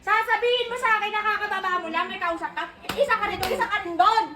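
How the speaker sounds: sharp scolding interrogation, pressing each one; angry scolding. Real, not acted. Mother confronting the kids over the video, angry scolding. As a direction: demand answers, jabbing each question. Confronting child about lying.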